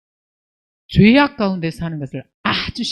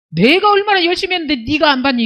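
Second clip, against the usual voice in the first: fast, higher, louder offended protest; proud indignation; 5 semitones higher, 4 dB louder, faster than usual. Retold or imitated. Preacher imitating Cain complaining to God, fast and indignant. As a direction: play Cain as a self-righteous complainer. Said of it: "얼마나 교만한 태도입니까".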